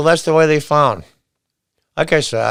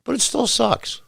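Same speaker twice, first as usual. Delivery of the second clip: high soft complaint; 10 semitones higher, 5 dB quieter than usual. Real, not acted. Complaining about insults at store.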